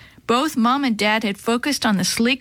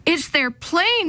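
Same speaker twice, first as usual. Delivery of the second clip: slow fearful; 7 semitones higher, slower than usual. Acted. Mother in shock.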